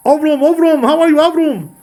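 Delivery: high, loud Ashkenazi greeting, Avram as OV-room; mock Ashkenazi accent. Ashkenazim greet the risen patriarch, mock Ashkenazi accent. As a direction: call out excitedly in a hammed-up Ashkenazi accent. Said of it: "the Ashkenazim, you know".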